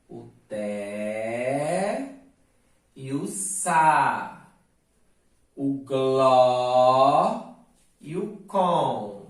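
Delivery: "té", "sa", "gló", "com" said apart, "gló" loud; isolated syllables. Shown as a demonstration. Teacher naming the stressed syllables one by one. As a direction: sound out each syllable alone. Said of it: "quais são as sílabas acentuadas?".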